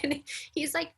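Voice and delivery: ordinary talk, nothing marked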